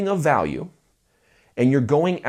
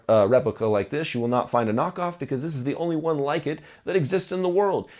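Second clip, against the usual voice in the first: sales voice; 5 semitones higher than usual. Shown as a demonstration. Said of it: "I'm using a sort of cadence with my voice".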